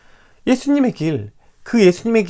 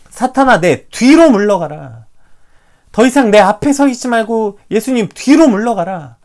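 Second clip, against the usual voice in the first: stern rebuke; 6 semitones higher, 8 dB louder than usual. Retold or imitated. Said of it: "말하고 있는 것입니다".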